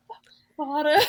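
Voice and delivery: high, loud mock outburst through laughter; laughing mock British yell; imitated British yelling. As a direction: imitate a friend's ranting yell. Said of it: "she'll just start yelling".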